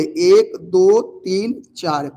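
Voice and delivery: दो, तीन धीरे गिनते हुए; बच्चों को गिनकर दिखाना; धीमी गिनती. Shown as a demonstration. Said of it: "क्या गो भेलै". (धीमी गिनती की आवाज़)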